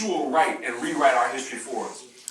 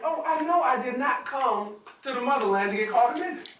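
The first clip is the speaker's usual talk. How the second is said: indignant brother; 7 semitones higher than usual. Retold or imitated.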